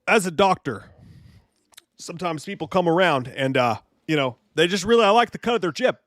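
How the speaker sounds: a hint of a drunk coach rambling; Doctor Chalice character voice. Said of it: "Doctor Chalice just sounds like a dude".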